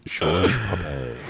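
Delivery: very slow French-accented "Georges Papet"; French pronunciation. Shown as a demonstration. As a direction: savor it as a French name, slowly. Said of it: "just make it French".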